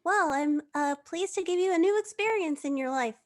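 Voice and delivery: very polite, a bit flustered gentleman; polite Merlin. Acted. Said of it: "but ever polite, says".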